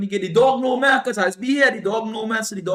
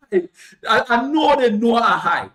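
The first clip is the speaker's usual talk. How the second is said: laughing; 4 semitones higher, 6 dB louder, slower than usual. Real, not acted. Laughing retelling of being high.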